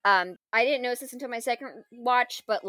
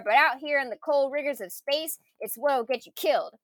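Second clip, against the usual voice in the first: imitating Yondu; 4 semitones higher than usual. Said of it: "Peter's like".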